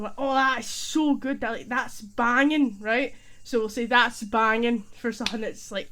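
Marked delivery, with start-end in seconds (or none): 0.2-2.8 loud, emphatic delight; acted happy enthusiasm; really happy. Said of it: "just being really happy about something". 3.9-4.8 loud, punchy demo cheer; emphatic but at usual pitch; hyped and amazed. Shown as a demonstration. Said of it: "so hyper and amazed".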